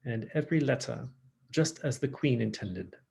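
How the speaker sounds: attempted British accent, every syllable pronounced; amateur Queen's English British accent. Shown as a demonstration. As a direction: try to be British, careful with every letter. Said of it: "if I were trying to be British".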